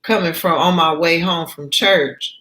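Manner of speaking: indignant scolding. Acted. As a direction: snap at the girl who kicked the can. Angry older woman scolding.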